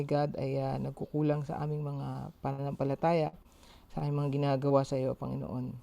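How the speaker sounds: earnest spoken prayer. Acted. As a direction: pray sincerely to God aloud. Leads an opening prayer.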